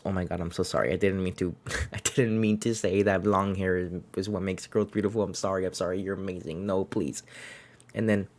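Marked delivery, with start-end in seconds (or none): 0.0-7.2 mildly flustered, hushed retold apology; light imitation of someone backpedalling in embarrassment; embarrassed apology. Doctor apologising to the patient he hurt, mildly embarrassed. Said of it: "he gets embarrassed and he goes".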